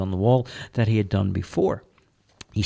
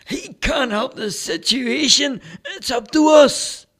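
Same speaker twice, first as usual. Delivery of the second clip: much higher and rising to louder; firm retort; 7 dB louder than usual. Acted. Dale telling the priest it's up to them, firm and loud. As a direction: push back hard at the prayer.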